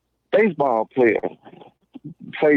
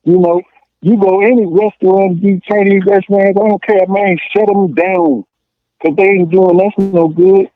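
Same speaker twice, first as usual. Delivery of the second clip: heated rant; 3 semitones higher, 6 dB louder than usual. Real, not acted. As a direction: push it out loud, getting worked up. Heated rant about boycotting.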